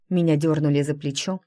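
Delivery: ordinary delivery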